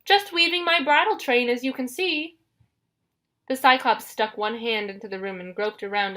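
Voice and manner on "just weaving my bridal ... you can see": high, put-on bride falsetto; falsetto, easing down at the end. A narrator's reading. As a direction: keep it up in a falsetto disguise. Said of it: "Grover said in his falsetto voice".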